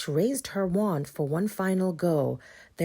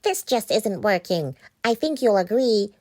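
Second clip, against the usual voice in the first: witch voice; 4 semitones higher, 5 dB louder than usual. Acted. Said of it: "as she glared down".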